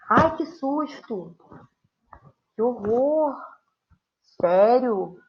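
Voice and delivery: teacher hamming up exclamations; expressive exclamation. Shown as a demonstration. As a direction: play up fright and disbelief. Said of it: "entonação mais expressiva".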